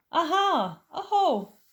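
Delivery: loud, high triumphant cry; gleeful aha; excited discovery. Acted. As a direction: pounce on the find. Child discovers marks.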